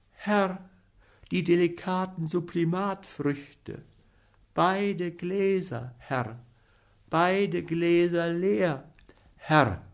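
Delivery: lightly voiced fading boy; weak Hans. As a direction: mumble it like a dying lad. Poisoned Hans confesses weakly.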